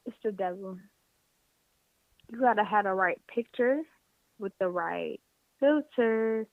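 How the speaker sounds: words broken by hiccups; hiccuping mid sentence. Real, not acted. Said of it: "I start hiccuping".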